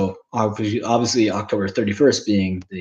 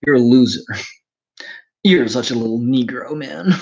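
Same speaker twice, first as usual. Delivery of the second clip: preppy bully taunt. Pretend. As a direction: jeer down at him like a movie jock. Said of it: "preppy guys in those nineties films".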